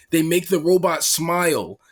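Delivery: giggling through it; cracking up while describing the robot smile; laughing. Real, not acted. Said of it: "it is so funny".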